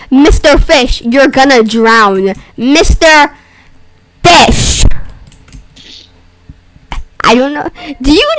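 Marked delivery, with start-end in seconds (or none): 0.1-4.9 slow quoting. Retold or imitated. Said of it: "You said".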